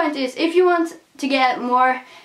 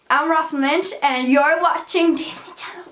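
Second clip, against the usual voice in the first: mock Disney intro; 4 semitones higher than usual. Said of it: "No, I'm kidding".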